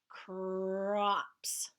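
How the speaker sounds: "Crops" whispered and drawn out, the C R blend clear; stretched sounds. Shown as a demonstration. Teacher stretching a word for the class, whispered. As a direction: pull "Crops" apart sound by sound. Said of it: "Stretch that one out".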